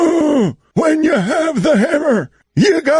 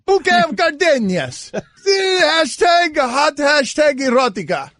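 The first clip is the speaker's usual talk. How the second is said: put-on Russian accent. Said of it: "Dan's fake Russian accent".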